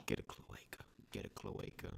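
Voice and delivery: whispered voice in her head; creepy whisper. Retold or imitated. Brain parasite whispering commands to her. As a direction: hiss it softly like an inner voice. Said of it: "it would whisper to her".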